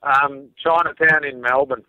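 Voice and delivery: slow, lightly put-on Asian accent; mock Asian accent. Guest as the rap artist naming his home, mock Asian accent. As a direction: answer slowly with a hint of mock Chinese accent. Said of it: "very authentic Asian accent".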